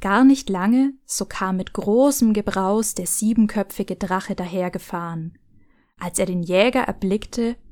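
fairy tale read aloud; story narration. Acted. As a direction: tell it like a bedtime tale. Reads Grimm fairy tale excerpt.

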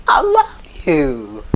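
slow, laughing through the words; giggling after his voice cracked; laughing at himself. Real, not acted. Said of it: "That voice crack".

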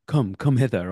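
lightly declaimed Shakespearean summons; stage actor's line. Retold or imitated. Acting out his Shakespeare stage line.

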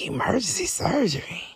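hushed, unvoiced "Emergency surgery?"; whispered doubt at the scammer's excuse; disbelieving whisper. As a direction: breathe it out in disbelief. Disbelieving reply.

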